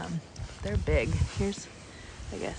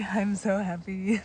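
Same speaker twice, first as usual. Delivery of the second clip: slow, quieter murmur; happy, softer; slower than usual. Real, not acted. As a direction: savour it gently.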